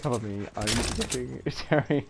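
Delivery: laughing mock echo of the call. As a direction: repeat the callout with a giggle. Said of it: "mocking repeat with laugh".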